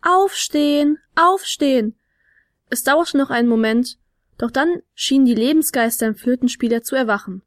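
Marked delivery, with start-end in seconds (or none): 0.0-1.9 "Aufstehen, aufstehen" in a bouncy chant; rhythmic wake-up call. A narrator's reading. Fionella waking the flute player, "Aufstehen" chanted rhythmically. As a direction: give "Aufstehen" a higher, springy beat each time. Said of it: "intonierte sie im Sprungrhythmus".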